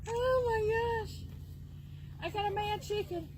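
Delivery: high, slow laughing cry; laughing exclaim. Real, not acted. To viewers about her mad chicken, high laughing exclaim.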